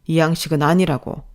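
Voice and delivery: firm "아니라고" at normal pitch, irritation held in; scolding. Acted. Boss rejecting the form, restrained irritation. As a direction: insist "아니라고" firmly, without shouting. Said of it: "혼이 나고 있었어요".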